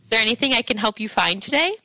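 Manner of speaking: lightly voiced posh saleswoman; posh, unfriendly shopkeeper. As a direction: greet a customer nicely without any friendliness. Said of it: "they're very nice, they're very posh, but they're not friendly in the slightest".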